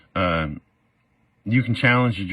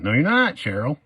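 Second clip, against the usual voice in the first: defiant retort; 7 semitones higher than usual. Retold or imitated. Defendant tells judge Cheryl no, defiant higher retort. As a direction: snap back at the judge.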